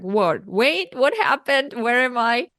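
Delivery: acted groggy bewilderment, pitch lifting after the first word; confused. Patient waking in the recovery room, confused. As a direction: act out waking up puzzled.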